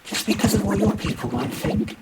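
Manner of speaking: high, loud, hurt question; challenging. Acted. Claude challenges Martin's reason.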